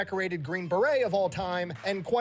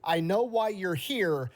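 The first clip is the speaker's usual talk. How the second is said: stern warning father; 2 semitones lower than usual. Retold or imitated. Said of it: "He then proceeded to tell me".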